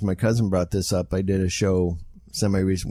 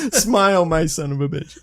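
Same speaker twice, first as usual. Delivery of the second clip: mock movie one-liner; 7 semitones higher, 3 dB louder than usual. Parodying Jaws one-liner.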